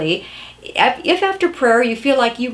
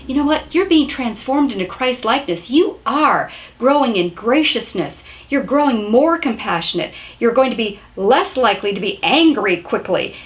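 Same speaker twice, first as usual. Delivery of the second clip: tender encouragement. Shown as a demonstration. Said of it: "in a tender, gentle, loving way".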